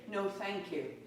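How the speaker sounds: softly spoken, gentle boundary; kindly refusal. Acted. Yoga teacher modelling a boundary, kindly. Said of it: "to very kindly say".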